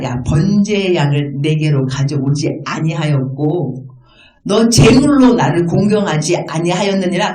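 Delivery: slow, measured reproach in God's words; clear declaration. Acted. God charging Israel over missing offerings, clear declaration. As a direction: spell out the charge deliberately. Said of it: "하나님이 지금 분명히 말합니다".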